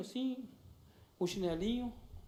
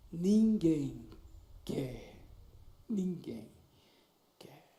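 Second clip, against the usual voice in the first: lower, broken, trailing off word by word; mild imitation of a girl crying, lower and halting; 4 semitones lower, much slower than usual. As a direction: let each word break and fade like sobbing. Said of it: "E ela começou a chorar".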